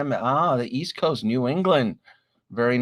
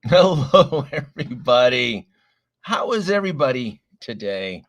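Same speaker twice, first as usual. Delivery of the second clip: sick voice; 6 dB louder than usual. Real, not acted. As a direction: voice worn down by a chest cold. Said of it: "apologies about the voice".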